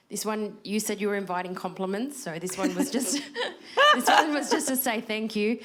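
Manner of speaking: breathless, gasping between phrases; short of breath, snatching air between words. Real, not acted. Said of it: "I'm out of breath 'cause I'm pregnant".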